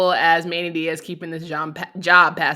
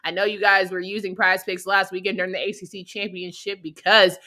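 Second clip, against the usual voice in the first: upbeat sponsor read. Acted. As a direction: sell it like a host ad.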